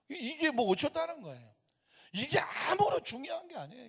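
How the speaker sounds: emphatic, insistent pulpit argument; impassioned preaching. Real, not acted. Preacher telling congregation birthplace does not matter, insistent. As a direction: preach against it with rising insistence. Preacher argues against regional prejudice.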